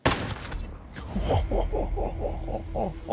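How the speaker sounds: high, breathy, drawn-out cackle; hammed-up laugh. Player gloating at the game, hammed-up laugh. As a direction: laugh it out in bursts, high and airy. Triumphant laugh before boast.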